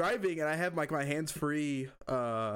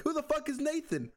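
laughing disbelief. Retold or imitated. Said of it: "I'm like".

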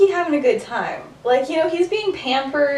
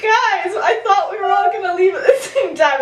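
higher-pitched mock protest; retold indignant complaint; 6 semitones higher than usual. James arriving to friends who left without him, mock indignant. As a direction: imitate a friend put out at being left behind.

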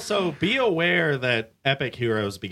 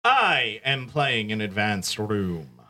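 slow theatrical villain menace; slow, menacing villain announcement; 2 semitones lower, slower than usual. Pretend. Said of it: "This villain voice that you keep putting on".

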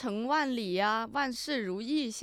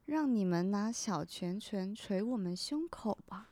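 whispering; 5 dB quieter, slower than usual. Retold or imitated. Whispered quote of banner slogan.

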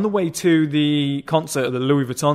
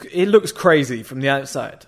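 ordinary talk, nothing marked

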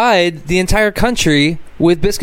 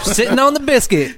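mock high voice; 8 semitones higher than usual. Hosts riff on a silly phrase.

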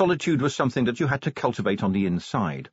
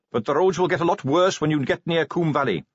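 put-on higher eager young Carrot voice; 5 semitones higher than usual.

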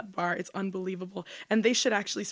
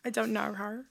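mock Australian; 5 dB quieter than usual. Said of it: "a roast of Australian accents".

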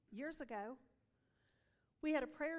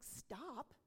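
protesting surprise; 5 dB louder than usual. Retold or imitated. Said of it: "And I was like".

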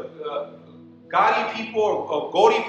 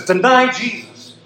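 chief's demand; 4 semitones higher, 4 dB louder, slower than usual. Retold or imitated. Chief's demand in retold story.

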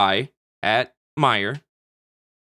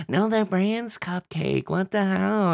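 slow, high mock Italian accent; a hammed-up Italian-accented huff; 8 semitones higher, 4 dB quieter, slower than usual. Wife corrects him, retold in a mock Italian accent. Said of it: "A hundred percent legitimate Italian accent".

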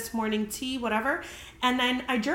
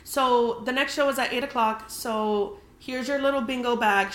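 slowed, slightly raised mocking host line; 2 semitones higher than usual. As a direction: parody the host, drawing it out. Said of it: "She didn't say it like that".

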